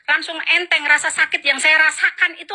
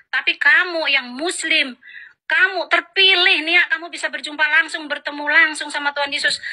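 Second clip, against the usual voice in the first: retold amazement; 4 semitones higher than usual. Retelling friend's amazed reaction.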